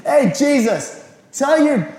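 high, loud, slow scolding; high, loud Pharisee scolding Jesus; indignant Pharisee. Acted. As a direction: demand it like an outraged Pharisee. Pharisees rebuke Jesus on donkey.

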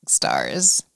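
slow, savoring exclamation; drawn-out delight. Real, not acted. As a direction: stretch it out, delighted.

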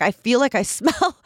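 breaking into a laugh mid-sentence; retold complaint, giggling through the end; amused, embarrassed protest. Laughs while retelling own complaint.

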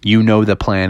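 low, deliberate cool leader; low-voiced team leader; Doctor Venkman. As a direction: lay it down low and measured. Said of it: "Doctor Venkman said".

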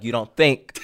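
a touch of a snap, rising on "think"; imitating snapping at the clerk, lightly; mild snap. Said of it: "He snapped at her".

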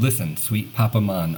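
accidental Jamaican "mahn" on Man; hint of Jamaican accent in "Papa Man". Real, not acted. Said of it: "a Jamaican accent there".

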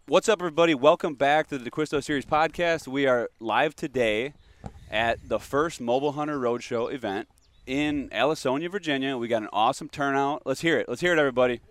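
upbeat hype host opening the show; podcast intro hype. Acted. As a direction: welcome the crowd like a live show host. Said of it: "let's get a podcast intro".

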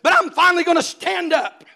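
put-on a kid puffing himself up brave; defiant boast. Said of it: "I said".

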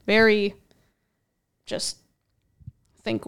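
winded from talking; short of breath, gasping between words. Real, not acted. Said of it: "I'm winded".

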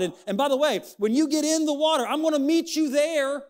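high, ringing voice of God. Acted. Preacher voicing God to struggling parents, lifted and ringing. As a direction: speak as God assuring the weary parent.

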